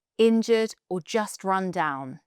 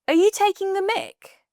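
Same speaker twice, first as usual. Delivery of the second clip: high, louder incredulous cry; outraged disbelief; 11 semitones higher, 5 dB louder than usual. Acted. Hearing pineapple belongs on pizza, incredulous outburst. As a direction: react like it's ridiculous.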